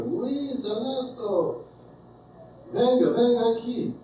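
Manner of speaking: high, mock call across the room; calling across the bar. Bartender calls the men in the corner over, a high mock call. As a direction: lightly imitate a bartender calling his friends over. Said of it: "he yells over to the guys".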